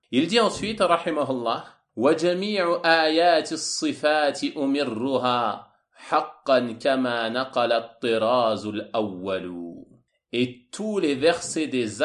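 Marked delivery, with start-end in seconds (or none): 1.9-9.8 Arabic verse recitation. Acted. Lecturer reciting the next verse of the poem, slow chanted recitation. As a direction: intone the line slowly with long held vowels.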